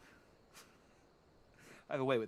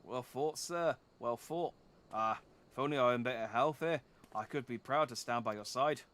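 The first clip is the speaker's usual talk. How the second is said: put-on light Canadian accent, eh tacked on; an old Canadian soldier, folksy. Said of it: "it's tiring being Canadian".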